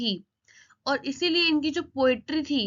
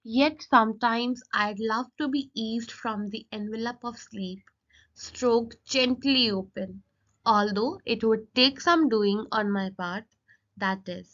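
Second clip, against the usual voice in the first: slow, deliberate verse recitation; poem reading; much slower than usual. Acted. Teacher reciting the poet's wish to viewers, slow poem reading. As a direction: read it slowly, phrase by phrase.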